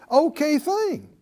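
ordinary delivery

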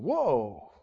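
low, soft stunned "Whoa". Retold or imitated. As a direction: breathe out a hushed whoa of shock. Stunned crowd reaction.

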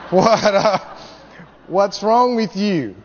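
usual speaking voice

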